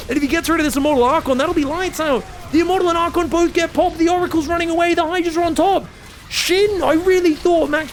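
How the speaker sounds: high, loud, fast caster yell; peaking excitement on Shin; climax call. Real, not acted. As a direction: scream the winner's name as it ends. Caster calls the winning fight.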